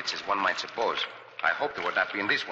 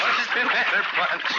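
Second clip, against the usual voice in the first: high, loud words through laughter; laughing; 12 semitones higher, 5 dB louder than usual. Acted. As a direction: tease him while cracking up. Teasing Pancho after dunking.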